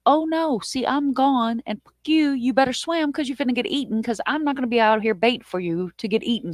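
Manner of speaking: hammed-up every man for himself; panicked bailing out. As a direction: abandon him in a mock panic. Fleeing the shark, ditching him.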